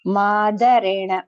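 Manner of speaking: Madarena with the na retroflex, tongue curled back; slow teaching model of Madarena. Shown as a demonstration. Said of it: "you have to roll your tongue inside".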